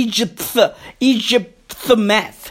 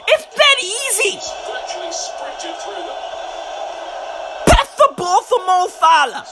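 exasperated pleading; 2 semitones higher than usual. Real, not acted. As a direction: beg the team as if it were obvious. Pleading with players to pass.

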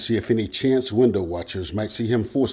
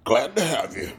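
mildly hearty welcome. A narrator's reading. Rick taking on a passenger, heartily. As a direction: welcome him with easy goodwill. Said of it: "Rick agreed heartily".

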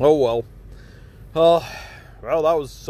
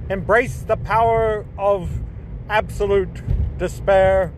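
grandiose villain proclamation; 2 semitones higher, slower than usual. Acted.

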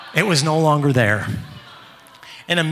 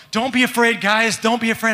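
higher-pitched, insistent pleading; urgent reassurance; 5 semitones higher than usual. Retold or imitated. Dad telling frightened boys not to fear, urgent reassurance. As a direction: keep telling them, pitched up and pressing.

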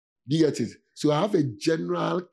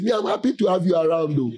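blunt, not sweet; 3 semitones higher, 7 dB louder than usual. Shown as a demonstration. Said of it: "my voice is not sweet".

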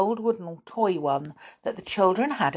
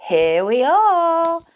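high, loud, drawn-out announcement; storybook character hailing the stop; calling out arrival; 11 semitones higher, 7 dB louder, slower than usual. Acted. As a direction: sing out the arrival to everyone.

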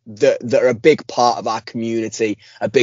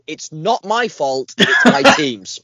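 mocking whiny excuse; 4 semitones higher, slower than usual. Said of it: "you said".

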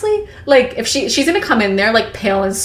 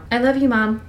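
thick voice; 3 semitones higher than usual. Acted. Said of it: "My voice was thick".

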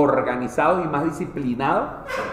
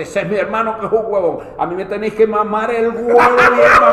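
crude frog; 4 semitones higher, 5 dB louder than usual. Acted.

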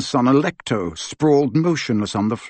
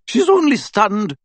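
slow, high, curt; impatiently; 9 semitones higher than usual. Acted. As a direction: brush off his panic. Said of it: "said Professor McGonagall impatiently".

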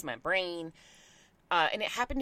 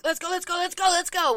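retold barking orders; 9 semitones higher, 4 dB louder than usual. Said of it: "Oh, I do, I just bark".

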